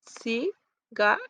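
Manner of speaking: slow cigarette, leaning on the final syllable rette; stress on the last syllable. Shown as a demonstration. Teacher demonstrating cigarette, slow, stress on rette. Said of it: "third syllable, red, is more prominent".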